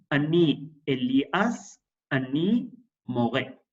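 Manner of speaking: slow, careful model reading; slow model sentence. Shown as a demonstration. Teacher models the sentence for the class, slow and careful. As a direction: lay each word out for the students. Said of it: "Vean la estructura".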